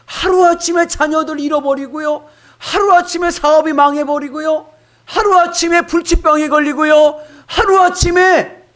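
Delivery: 높고 크게 외치는 설교; '하루아침에'를 매번 높이 쳐 외치듯. Real, not acted. ('하루아침에'를 높고 크게 외치는 설교)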